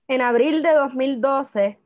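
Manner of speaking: projected reading voice, strong opening easing off; literary reading. Acted. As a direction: read your own essay aloud to an audience. Reads the essay aloud. (lectura literaria en voz alta)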